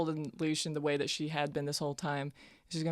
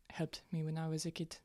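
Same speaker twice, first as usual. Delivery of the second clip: whispered aside; 5 dB quieter than usual. Acted. Character ends question to NPC.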